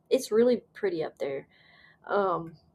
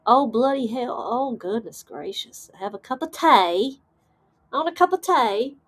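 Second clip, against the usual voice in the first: playful put-on British accent; lightly faked British accent; mock British accent; 3 semitones higher than usual. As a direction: ham up a British tea drinker. Playing British over tea talk.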